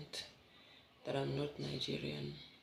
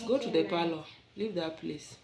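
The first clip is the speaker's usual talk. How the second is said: firm scolding; 2 semitones higher, 7 dB louder than usual. Real, not acted. Mother ordering her child out to the parlor, loud and firm. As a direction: send her off, sharp and fed up.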